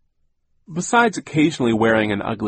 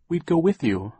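piping up; 7 semitones higher, 3 dB louder than usual. Acted. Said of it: "Klaus piped up".

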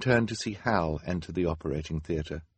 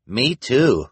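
loud, higher eager cry; cried out; 6 semitones higher, 8 dB louder than usual. A narrator's reading. Doctor chiming in with the nurse, crying out. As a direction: call it out over the crowd. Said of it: "cried a doctor".

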